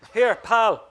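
loud, high call across the battlefield; shouted. A narrator's reading. Rex shouts across to the bogger to get his attention. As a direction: yell it over the noise to him. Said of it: "he shouted at the bogger".

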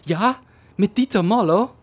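high, loud and strained German voice, answering the phone; strained, breathless German. Acted. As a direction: gasp it out like a flustered German husband. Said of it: "A strained, breathless male voice said".

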